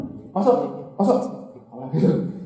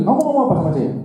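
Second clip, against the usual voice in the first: angry question; 4 semitones higher, 3 dB louder, faster than usual. Retold or imitated. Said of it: "Dia bilang".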